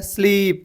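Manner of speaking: स्लीप with a long drawn-out ee; stretched vowel. Shown as a demonstration. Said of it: "समझो खींचने का रहता word".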